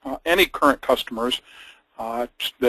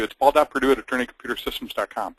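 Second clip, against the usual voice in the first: plain; faster than usual. Shown as a demonstration. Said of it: "So I'll tell you".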